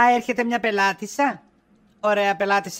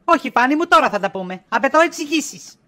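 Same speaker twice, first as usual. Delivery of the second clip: raised, insistent voice demanding answers; 3 dB louder than usual. Acted. Wife confronts husband about the perfume, insistent. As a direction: press him hard for the truth.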